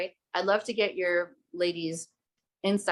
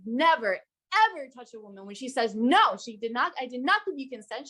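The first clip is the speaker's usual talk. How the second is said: higher, mildly heated scolding; retold full rage; 5 semitones higher than usual. Woman telling off the man who touched her, retold rage. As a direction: scold him firmly in a raised pitch. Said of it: "full rage".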